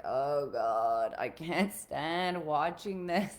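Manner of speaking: slow, drawn-out groaning dismay; can hardly bear to watch; retold exasperation. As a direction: act out pained exasperation. Retelling her reaction to bad parenting.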